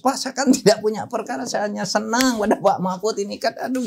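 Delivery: high-pitched imitation of a crying man; mock tearful pleading. Retelling how the summoned gift-giver protested his innocence to him, mock tearful. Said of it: "Panggil orangnya nangis".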